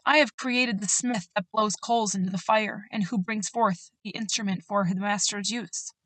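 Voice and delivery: scripture reading. Acted. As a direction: read the verses like a solemn promise. Continues reading Isaiah.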